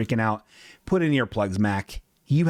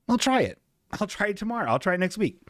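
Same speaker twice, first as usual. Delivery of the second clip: much higher squeaky reading of the quote; mock voice for the message; 8 semitones higher, much faster than usual. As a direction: pitch it way up playfully.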